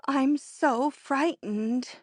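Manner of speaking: slow, trembling fear; frightened. Acted. The sobbing friend confessing her fear, slow and frightened. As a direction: barely get it out, scared.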